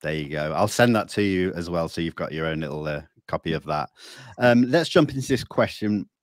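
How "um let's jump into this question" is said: talking around a mint; mouth full. Real, not acted. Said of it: "I've got a mint in my mouth".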